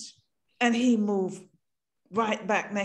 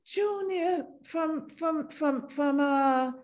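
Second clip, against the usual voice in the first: recalling him with sudden delight; excited recognition; 3 semitones higher than usual. Retold or imitated. Woman recognizing an old schoolmate, amazed.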